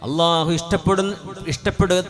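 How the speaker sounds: loud, high, impassioned sermon voice; fervent Friday preaching; full-force preaching. Acted. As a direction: preach it out to the whole hall.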